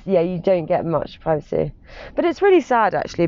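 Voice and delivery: ordinary talk, nothing marked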